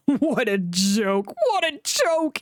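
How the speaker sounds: slow, gloating chortle; chortling. A narrator's reading. Gordon mocking stuck Thomas, chortling. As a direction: chuckle it over, slowly. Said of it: "he chortled".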